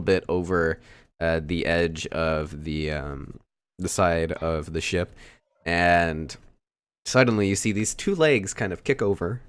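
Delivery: steady, emphatic narration; game master scene setting. Acted. Game master showing two players a figure climbing aboard, measured narration.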